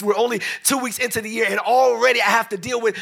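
shouting in disbelief; rising exasperated shout. Retold or imitated. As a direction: build the frustration, pushing harder. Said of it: "and you like".

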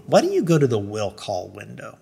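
calm, unhurried suggestion; retold clerk's composed advice. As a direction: suggest it mildly. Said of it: "she said it very calmly".

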